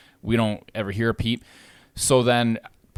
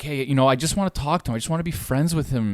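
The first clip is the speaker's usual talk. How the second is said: quick, pleading imitation of the neighbour acting friendly; mock friendly plea; faster than usual. Tenant switching to sweet talk at the door, quick mock friendliness. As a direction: rattle it off, fake-nice and harmless. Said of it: "he'd go, like, the other way".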